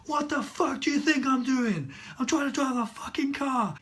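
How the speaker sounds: loud, high, exasperated yell back; cracking under pressure. Retold or imitated. Learner snaps back at instructor, frantic acted yelling. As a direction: act out snapping and shouting back. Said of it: "I just cracked".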